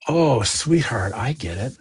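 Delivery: put-on slow and gentle, like soothing a child; tender. Speaking kindly to a younger self, slow and tender.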